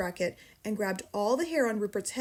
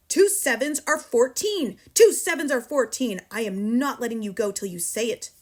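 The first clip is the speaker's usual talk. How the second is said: furious bellow; 3 semitones higher, 7 dB louder than usual. A narrator's reading. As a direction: roar the sum at the dangling boy. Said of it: "Miss Trunchbull bellowed".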